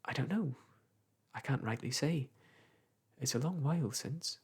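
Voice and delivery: the weaver answering the clerk mildly. Acted. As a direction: answer gently, unsure. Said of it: "answered mildly".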